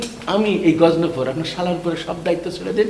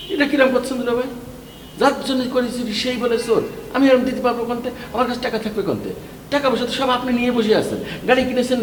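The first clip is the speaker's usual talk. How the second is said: higher-pitched, aggrieved complaint; indignant protest; 6 semitones higher than usual. Acted. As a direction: pile up grievances against someone who owes you. Quarrel with brother-in-law over money.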